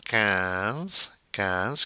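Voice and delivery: "quinze" said with K and a nasal vowel; French "quinze", no W sound. Shown as a demonstration. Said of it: "Q U making the K sound".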